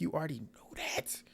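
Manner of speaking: soft, held-back comeback; muted retort. Retold or imitated. Recapper answering the apologetic bride, muted retort. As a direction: keep the comeback soft before the outburst.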